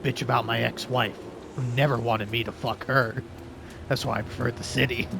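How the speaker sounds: lightly gravelly gruff detective; cool gravelly growl, low and brooding. Pretend. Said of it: "I just wanna talk in a cool, gravelly voice".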